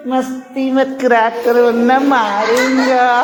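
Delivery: slow, drawn-out scolding threat; mock-stern papa warning, each word stretched; angry papa. Shown as a demonstration. Teacher showing children papa's anger, slow mock scolding. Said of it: "नहीं, इस तरह बोलते".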